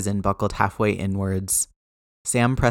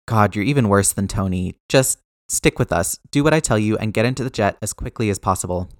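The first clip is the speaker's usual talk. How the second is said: commanding; 4 dB louder than usual. Acted. Steve giving orders.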